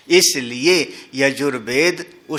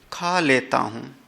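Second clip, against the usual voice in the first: grudging, softer खा लेता हूँ; reluctant tone; 5 dB quieter than usual. Shown as a demonstration. Teacher showing how a grudging tone hurts the cook. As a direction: say it like you'd rather not eat. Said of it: "खाना बनाने वाले का दिल ही टूट गया".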